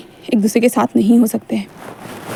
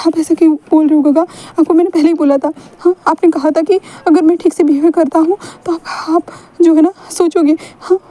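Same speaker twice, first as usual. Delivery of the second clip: higher, pleading voice close to tears; upset pleading; 4 semitones higher than usual. Acted. Wing pleading with Wang Ji after rejection, upset and high. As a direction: beg him, voice rising in distress.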